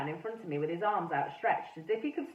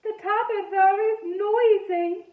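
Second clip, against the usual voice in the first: put-on high, slow ghost boy with a French-ish accent; funny French-ish accent; 12 semitones higher, 9 dB louder, slower than usual. A narrator's reading. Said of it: "he said in his funny accent".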